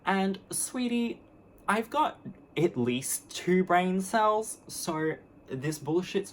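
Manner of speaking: high, slow patronizing sweetie; sugary contempt with a high sweetie; condescending. Real, not acted. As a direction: talk down to him sweetly. Condescending put-down.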